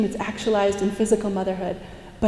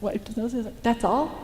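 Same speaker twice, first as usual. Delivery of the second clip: much softer, incredulous questions; can't believe it's that easy, softly; stunned disbelief; 7 dB quieter than usual. Retold or imitated.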